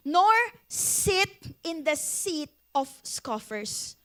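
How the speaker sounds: deliberate, measured verse reading; slow scripture reading. Shown as a demonstration. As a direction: read the verse very slowly. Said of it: "sabi ng verse".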